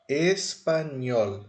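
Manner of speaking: "espanhol" slowly, stressed on the final "nhol"; stress on last syllable. Shown as a demonstration. Teacher showing the word to students, "espanhol" stressed on "nhol". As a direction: draw out "espanhol", weight on "nhol". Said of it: "qual dessas três sílabas eu coloco mais força".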